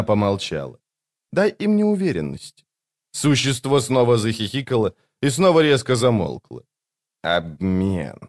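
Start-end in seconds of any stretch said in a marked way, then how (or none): 1.3-2.6 high woman, stressing им; young woman's voice. A narrator's reading. 7.2-8.2 low, rasping monster; creature voice. A narrator's reading. The creature speaks.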